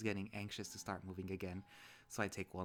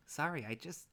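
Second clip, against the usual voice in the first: higher, earnest apologetic voice; 5 semitones higher, 5 dB louder than usual. Acted. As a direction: apologize anxiously, pitched up and a bit louder. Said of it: "I don't know why I'm doing that voice".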